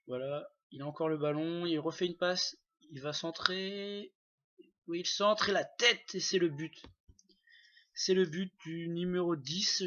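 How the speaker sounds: building to a goal call, slowing on the cross; excited sports commentary. Acted. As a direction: rise toward the goal like a commentator. (commentaire sportif qui monte jusqu'au but)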